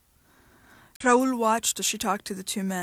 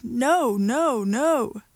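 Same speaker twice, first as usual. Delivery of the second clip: repeated loud protest; loud refusal; 3 semitones higher, 4 dB louder, much slower than usual. Acted. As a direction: drown her out with no. Refusing to hear, after shouting.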